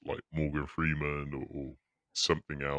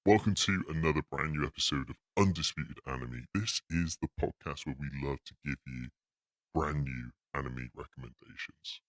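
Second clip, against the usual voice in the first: podcast intro. Acted. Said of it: "I want you to do the intro again".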